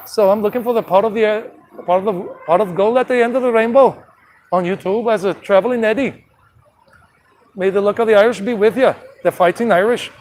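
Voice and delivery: a hint of put-on Irish leprechaun; amateur mix of Scottish and Irish; Scottish-Irish accent. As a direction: lightly mimic an Irish brogue. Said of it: "trying to do like a combination of Scottish and Irish".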